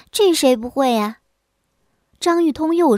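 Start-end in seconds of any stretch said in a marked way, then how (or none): 0.1-1.2 unconvinced retort; 不服气. Acted. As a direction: brush it off, refusing to be impressed. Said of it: "乔氏不服气地说". (不服气地顶一句)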